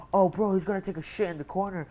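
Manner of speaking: mock-scandalized heckle; mocking onlooker. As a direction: imitate a teasing onlooker, fast and high. Mocking onlooker in retold scene.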